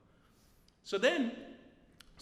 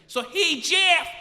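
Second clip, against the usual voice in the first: nurse; 6 semitones higher, 10 dB louder, slower than usual. Retold or imitated. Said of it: "so then nurse says".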